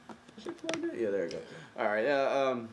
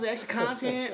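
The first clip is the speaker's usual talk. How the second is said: "extra content" with mock East Asian accent; 13 semitones higher, slower than usual. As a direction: say "extra content" as "ekshi content", high. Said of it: "He sound like Asian now".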